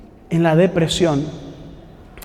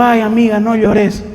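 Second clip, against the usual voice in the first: mock pitying friend; 3 semitones higher than usual. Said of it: "Eh, estoy llorando".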